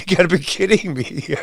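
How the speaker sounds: laughing it off in disbelief; disbelieving laugh. Real, not acted. Host mocking Warren on ethics, laughing in disbelief. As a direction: scoff and laugh through the words.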